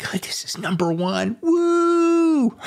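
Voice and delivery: high mock-hype intro with a whoop; high, cheering self-impression; excited show opener. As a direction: imitate your giddy first take. Acts out own first recording.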